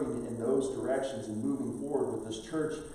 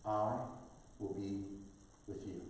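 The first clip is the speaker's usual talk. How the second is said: hushed divine answer; 3 semitones lower, 7 dB quieter than usual. Acted. God's answer voiced.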